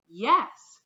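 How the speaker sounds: loud shouted yes; children shouting. Acted. Children answer the teacher with a loud shout. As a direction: call out eagerly. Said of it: "the children shouted".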